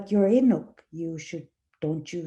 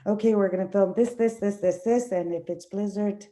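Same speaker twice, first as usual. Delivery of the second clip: mock hurried producer; 2 semitones higher, faster than usual. Mocking hurried southern producer.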